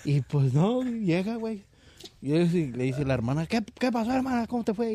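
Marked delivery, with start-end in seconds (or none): 3.4-4.9 put-on high sing-song Yucatecan accent; high Yucatecan sister asking how it went. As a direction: ask it like a chatty Yucatecan woman. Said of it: "Ya ves cómo hablan los yucatecos".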